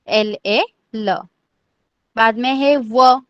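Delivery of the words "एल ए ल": एल, ए, then ल, slowly; spelled-out pronunciation. Shown as a demonstration. Teacher repeating how ल is pronounced, spelled out slowly. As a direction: space out each part of एल ए ल. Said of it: "ल को कैसे pronounce करना है".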